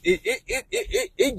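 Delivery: breaks into a high giggle mid-word; laughing. Real, not acted. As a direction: laugh through the stammer. Laughing while recalling chocolate.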